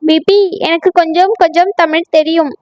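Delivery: put-on Hindi accent. North Indian bride speaks.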